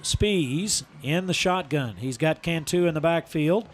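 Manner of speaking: rising football run call; live play-by-play. Real, not acted. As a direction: build with the runner as he breaks free.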